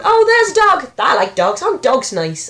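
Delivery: loud, high mock enthusiasm; forced distraction. Distracting oneself from bad thoughts, loudly over-keen. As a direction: seize eagerly on anything else. Acts out distracting self with dog.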